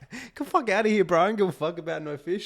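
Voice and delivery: high, loud mock rant; mock angry outburst. Man telling off a chatty fisherman, loud mock anger. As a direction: blow up at him, hammed-up. Imagined rebuff of a stranger.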